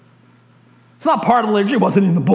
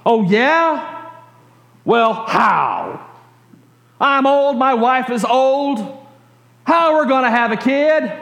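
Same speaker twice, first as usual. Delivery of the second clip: put-on higher, complaining whine of an old man; whining; 4 semitones higher, slower than usual. Old priest whining to the angel, higher complaining whine. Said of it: "You see, he's whining".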